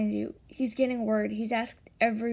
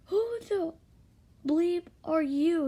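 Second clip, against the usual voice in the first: high, drawn-out confrontational voice; loud, slow indignant demand; angry challenge; 7 semitones higher, 4 dB louder, slower than usual. A narrator's reading. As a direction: challenge them hotly, pitched up. Boy challenges a stranger in story.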